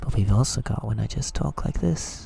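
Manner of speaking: rough, creaky, come-hither voice in soft ASMR style. Showing a second type of ASMR to chat: come-hither voice. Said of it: "the come hither".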